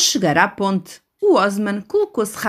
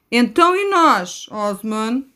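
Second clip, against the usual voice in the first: pleading seagull; 2 semitones higher, slower than usual. Acted. Gulls plead with Osman.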